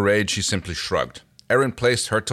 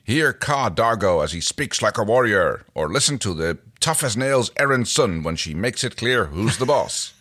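punchy, louder promo voice; toy advert read; 2 semitones higher, 3 dB louder than usual. Acted. Reading the badge's packaging aloud, hyped announcer style. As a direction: sell it like the blurb on a toy box.

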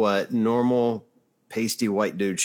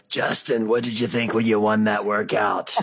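sideline reporter voice. Pretend. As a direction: shout the question like a field reporter. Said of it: "doing interviews on the sidelines like".

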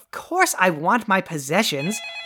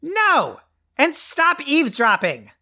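high-pitched scolding yell; 8 semitones higher than usual. Acted. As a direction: yell at an eavesdropper to back off. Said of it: "your yelling".

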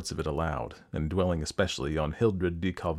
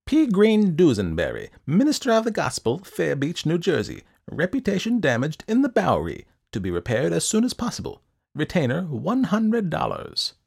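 high, loud, declaiming little man; high-pitched, officious recital; eccentric ledger-keeper; 10 semitones higher, 5 dB louder than usual. A narrator's reading. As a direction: read the entry out in a high, emphatic voice.

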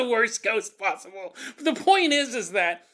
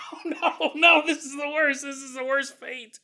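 higher-pitched comic groaning dismay; laughing, exaggerated dread; mock despair; 5 semitones higher than usual. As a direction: lament your fate, hammed up. Ghost dreads a sitcom marathon.

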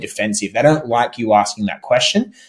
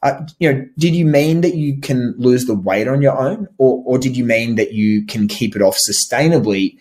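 cool non-aggressive. Shown as a demonstration. Coach showing a calm reply to an overconfident prospect. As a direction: keep it relaxed and unthreatening. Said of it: "Stay cool and say".

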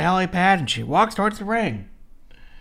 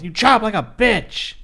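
higher, louder retold taunt; mock yell; 6 semitones higher, 7 dB louder than usual. Wrestler taunting her rival mid chop exchange, mock yell. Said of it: "and yells".

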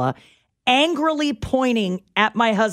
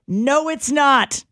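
slow, higher, stubborn no; flat denial; 5 semitones higher, 4 dB louder, much slower than usual. Retold or imitated. Stranger refusing Patty, slow stubborn denial. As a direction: dig in and refuse. Woman flatly denying to Patty.

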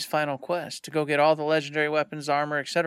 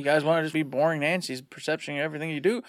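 mock pissed off. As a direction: imitate a fed-up game master giving in. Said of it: "he gets pissed off".

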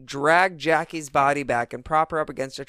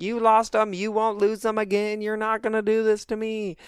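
higher, insistent mock-mother voice; retold movie mom; 5 semitones higher than usual. Mom in the movie to her boys, higher and insistent. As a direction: voice the mother laying down her demands. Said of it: "the mom is like".

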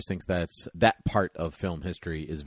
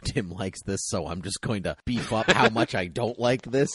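imitating a troll. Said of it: "a small amount of trolling".

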